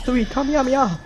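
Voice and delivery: anime attack call. Pretend. Shouting anime attack name.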